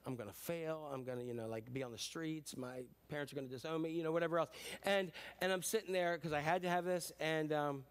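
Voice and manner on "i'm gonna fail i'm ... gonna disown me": mock panic. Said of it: "my panic level is like".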